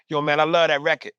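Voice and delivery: put-on East Coast accent, "record" said the New York way. Showing how the East Coast says record, in an East Coast accent. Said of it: "somebody from the East Coast go".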